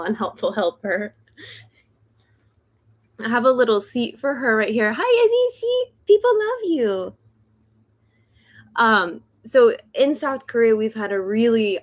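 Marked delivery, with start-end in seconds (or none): 5.0-7.1 greeting a pet in a much higher voice. Real, not acted. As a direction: coo at the dog. Talking to her dog on camera.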